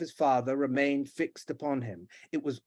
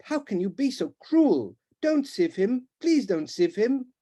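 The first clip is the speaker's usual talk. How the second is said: higher, begging plea; pleading; 8 semitones higher, 4 dB louder than usual. Acted. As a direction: plead for your brother. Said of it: "protested Rupert".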